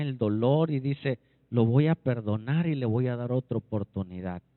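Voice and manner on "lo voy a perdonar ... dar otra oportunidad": low-pitched acted voice of God; low, restrained divine resolve; God resolving to forgive. Voices God granting another chance.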